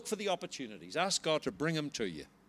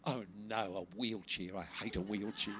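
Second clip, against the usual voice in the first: dismayed prayer; 8 semitones lower, 9 dB quieter than usual. Retold or imitated. Preacher replaying his first prayer for someone in a wheelchair, quietly dismayed. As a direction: drop into a quiet, dragging dread.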